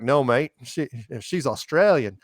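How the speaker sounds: lightly imitated Australian accent; half-hearted Aussie impression; terrible Australian accent. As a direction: try a bad Australian accent. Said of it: "it's a terrible accent".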